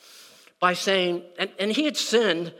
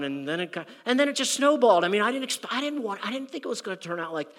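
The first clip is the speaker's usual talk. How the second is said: self-justifying excuse; 3 semitones higher than usual. Retold or imitated. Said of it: "that's probably the way I would have".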